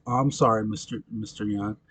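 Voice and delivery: offhand, trailing-off imitation of sympathy; understated, dropping away softly; unshocked condolence. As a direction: say sorry with no shock at all. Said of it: "instead of selling the shocked face".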